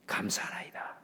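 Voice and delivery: breathy whispered repeat of 감사하나이다; preacher whispers the thanks back; whispered echo. Acted. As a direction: whisper 감사하나이다 like an inner prayer.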